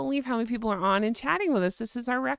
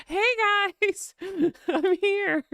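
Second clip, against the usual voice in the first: high, drawn-out mock greeting through laughter; giggly mock announcement; 10 semitones higher, slower than usual. Imagining herself crashing a society wedding, laughing mock greeting. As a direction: announce yourself slowly and high, cracking up.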